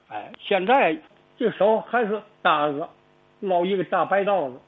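ordinary talk

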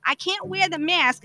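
heated retold comeback to the nurse; retold angry retort.

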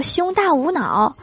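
slow, high delighted pronouncement; drawn out proudly, word by word; 得意地慢说. Retold or imitated. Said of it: "郭大嫂大喜说". (郭大嫂得意地慢慢说)

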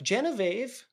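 high-pitched attempt at a posh lady; posh lady accent. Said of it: "like a posh lady accent".

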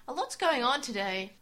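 lightly voiced mum, a bit brighter; mum's voice. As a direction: quote mum with mild lift. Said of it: "Taichi's mum says".

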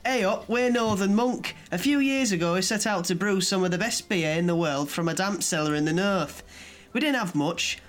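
put-on northern accent. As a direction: read it in a hint of a northern accent. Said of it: "read it in a northern accent".

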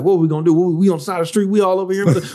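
a light mock of Mariah panicking; mock panic. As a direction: rush it like she's freaking out. Mariah panicking, voiced by him.

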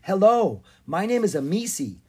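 friendly, lifted hello; smiling. A narrator's reading. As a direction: greet a new friend with a smile.

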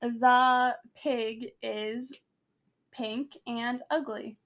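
very slow, careful Russian accent. Shown as a demonstration. Setting co-host a test sentence, slow Russian accent. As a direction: spell it out slowly in attempted Russian. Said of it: "in your Russian accent".

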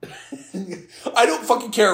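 laughing slowly through it. Real, not acted. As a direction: say it while cracking up.

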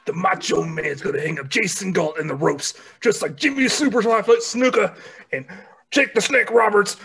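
lightly voiced Hulk Hogan. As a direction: rasp it like Hogan. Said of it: "I was kinda going Hulk Hogan".

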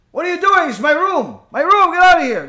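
high, loud angry yell; screaming at him. Retold or imitated. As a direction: chase him out in fury. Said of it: "She starts screaming at him".

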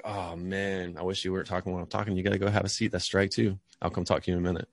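teacher gently sends a talking student to sit; disappointed, not angry. Shown as a demonstration. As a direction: sound sorry for the kid, not mad. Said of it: "more of a disappointment than, like, a frustration".

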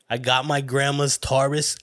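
lightly put-on accent, rounding "Taurus"; mimicked rapper accent. Host mimicking a Utah rapper's lyric, put-on accent. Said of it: "who does that accent".

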